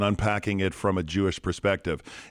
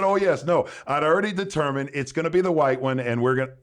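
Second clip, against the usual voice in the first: flustered farmer; 6 semitones higher, 3 dB louder than usual. Retold or imitated. Farmer caught in his lie.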